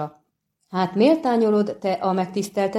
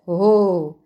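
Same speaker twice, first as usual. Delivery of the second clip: calling out; 4 dB louder than usual. Acted. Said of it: "Kiáltott a trubadúr".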